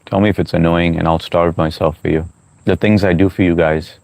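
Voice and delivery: talking while chewing; chewing between words; mouth full. Real, not acted. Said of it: "not too loud when I'm chewing".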